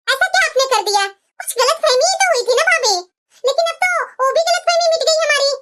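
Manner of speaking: a fond sister-in-law gently chiding; sister-in-law's voice. Acted.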